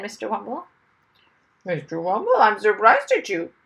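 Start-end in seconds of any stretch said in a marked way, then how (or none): 1.7-3.5 parrot said loudly. Acted. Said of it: "the parrot said loudly".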